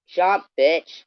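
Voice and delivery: loud, high furious yell. Real, not acted. Ranting vlogger yells at online critic. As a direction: bark it out as a threat.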